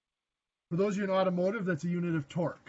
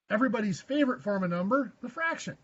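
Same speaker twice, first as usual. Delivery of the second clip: lightly sarcastic, pitched up at the end; mock fondness with a quick, higher lilt; a little sarcasm; 3 semitones higher, faster than usual. Real, not acted. Teacher to students who hate fractions, lightly sarcastic. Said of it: "a little sarcasm in my voice".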